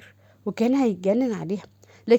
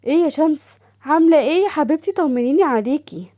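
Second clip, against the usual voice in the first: higher, eager sister calling; sister's voice; 4 semitones higher, 5 dB louder than usual. Acted. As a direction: gush over her sister on the phone. (صوت أخت متلهفة أعلى)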